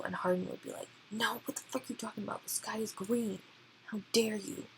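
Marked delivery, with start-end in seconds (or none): 1.1-4.6 hammed-up indignant comeback, rushed at first; mock outrage. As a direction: act out a petty, offended argument. Acted petty quarrel, mock outrage.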